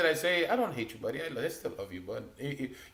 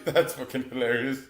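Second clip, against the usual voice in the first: words breaking into laughter; laughing delight; 3 dB quieter than usual. Real, not acted. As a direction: talk while still cracking up. Still laughing at the joke.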